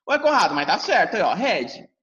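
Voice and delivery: a light pupil voice that insists it is right; puzzled student pushing back; pupil objecting. Pretend. Imagined pupil insists to teacher Conrado, lightly voiced.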